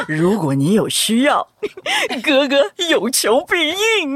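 stifled giggles. Shown as a demonstration. Reading the flirty line.

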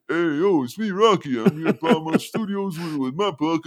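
hammed-up palooka impression; Rocky. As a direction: put on the dopey movie boxer voice. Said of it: "do the Rocky voice".

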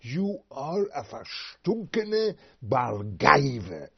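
contemptuous Yiddish scorn; slow scornful insult. Acted. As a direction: spit the insult out slowly. Yiddish insult, slowly hurled.

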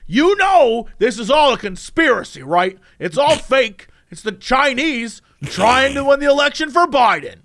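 insistent, imitating a ranter; mock conspiracy rant. Ranting shopper to store staff, mock insistent conspiracy voice. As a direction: push each claim like a crank.

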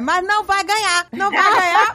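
mock stern mother. Mãe avisando a filha que não vai ganhar presente, tom bravo de brincadeira. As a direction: call out a stern no from behind.

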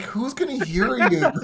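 high, loud, drawn-out mock disbelief; incredulous retort. Host to whispering partner, loudly incredulous. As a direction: blow the secrecy wide open, loudly.

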